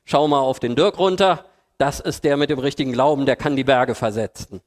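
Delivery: smug, self-satisfied bragging aimed upward; boastful. Retold or imitated. The big believer bragging to God about himself, smug. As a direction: show off like the believer who thinks he is a mighty digger. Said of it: "der sagen kann".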